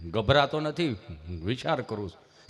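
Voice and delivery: low, halting stammerer's voice; imitated tongue-tied friend; stammering friend. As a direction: stall on a hum, then push the words out. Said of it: "જીભ જલાઈ સોટે અટકે".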